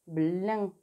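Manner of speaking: "Blin" with a lingering l after the b; sounded-out syllable. Shown as a demonstration. Teacher repeats the harder syllable, "Blin" drawn out. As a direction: draw out "Blin" for spelling. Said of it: "un petit peu plus difficile".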